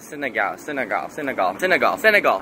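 "Senegal" retried with endings from "gal" to "gahl"; trying out pronunciations. Shown as a demonstration. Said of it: "I don't know how to pronounce it".

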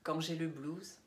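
emphatic, declaimed verse with deliberate pauses; pointed spoken-word poem delivery; poetry recital. Acted. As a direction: declaim each line firmly, easing off on the last. Reads second poem aloud.

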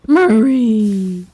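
calling out. Real, not acted. Calling the cat.

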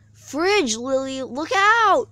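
loud, high shout of warning; a girl yelling a warning to her friend. A narrator's reading. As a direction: scream the warning at the top of your lungs. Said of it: "yelled Elizabeth at the top of her lungs".

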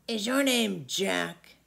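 lightly voiced old giant, loud and slow; a big old giant savouring the thought of food; an old giant relishing a juicy boy.

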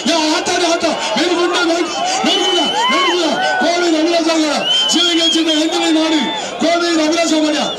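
loudspeaker arena announcer; through a megaphone. Real, not acted. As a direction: call it out over the PA. Arena announcer calling over loudspeakers.

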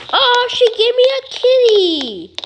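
high-pitched squeal of delight over a kitten; gushing delight. Pretend. Player thrilled at being given a kitten, gushing. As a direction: gush in a high voice, falling away at the end.

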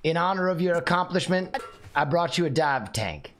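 mock solemn tribute. Mock presentation of a gift.

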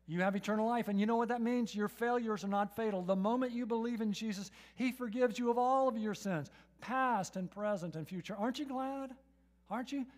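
loud, driving sermon build; full-force preacher's cry; fervent preaching. Acted. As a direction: proclaim it to the whole room.

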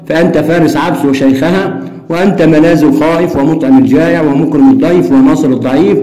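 steady reading of a story dialogue; reading aloud. Shown as a demonstration. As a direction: read the exchange out for the class. Reads dialogue passage aloud. (قراءة حوار القصة بهدوء)

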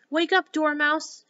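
loud, high, drawn-out wake-up call; crying out. A narrator's reading. Hatter and Hare wake the Dormouse, calling out. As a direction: call out slowly to rouse a sleeper. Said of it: "they both cried".

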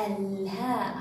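"الهاء" with the ل clearly held; pronounced lam. Shown as a demonstration. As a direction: sound out الهاء, L then long haa. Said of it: "وهو من حروف اللام القمرية".

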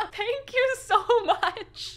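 high, loud, slow laughing gush; overjoyed thanks. Real, not acted. Fan thanking the sender for pins, overjoyed. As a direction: stretch the thanks out with delight.

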